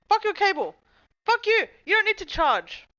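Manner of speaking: high, loud furious rant; angry yelling. Real, not acted. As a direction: scream at the broken cable. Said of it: "I'm yelling at my fucking phone".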